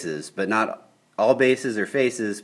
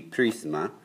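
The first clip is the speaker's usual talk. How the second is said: Spanish word, English accent; 3 semitones lower, 6 dB quieter than usual. Shown as a demonstration. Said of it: "Don't make fun of my white boy Spanish accent".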